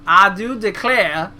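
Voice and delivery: exaggerated Georgia accent; mock Southern accent. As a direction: drawl it out in a fake Southern accent. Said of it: "make fun of that bad accent".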